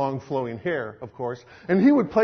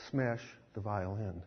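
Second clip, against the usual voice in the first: soft firm command; 9 semitones lower, 14 dB quieter than usual. Acted. Jesus softly repeats his command to Zoltan. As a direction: lay it down gently but firmly.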